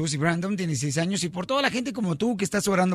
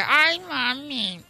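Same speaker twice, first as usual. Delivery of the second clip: sweet daughter voice; 3 semitones higher, much slower than usual. Acted.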